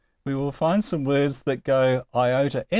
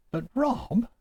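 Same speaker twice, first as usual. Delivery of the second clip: much higher mock-student protest; imagined objecting student; 11 semitones higher, 3 dB quieter than usual. Students challenging the teacher's example, high mock objection. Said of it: "Now, you will tell me".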